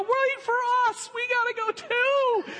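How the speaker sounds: high, loud call to catch up; excited calling. Acted. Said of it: "come running across and go".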